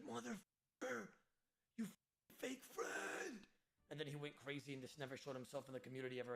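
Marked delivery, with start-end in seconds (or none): 0.0-3.4 mild mock outrage, slow and higher; imitating an insulted friend's outburst; angry friend. Friend refused a loan, lightly voiced mock anger. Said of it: "He was like".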